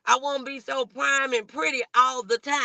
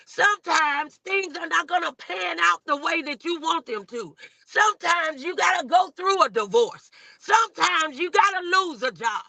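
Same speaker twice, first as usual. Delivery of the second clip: preaching; 2 semitones higher than usual. Acted. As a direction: hammer each "sometimes" like a sermon. Preaching about life's hardships.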